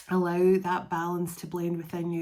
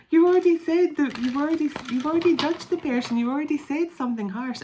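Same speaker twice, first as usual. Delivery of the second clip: emphatic call-out; 8 semitones higher, 7 dB louder than usual. Acted. Calls out hypocrites.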